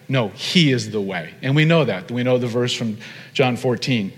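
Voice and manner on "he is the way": HE carries the weight, rest falls away; emphatic HE, low falling finish; stress on HE. Shown as a demonstration. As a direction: lean firmly on "he", then let it fall. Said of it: "because he is emphatic".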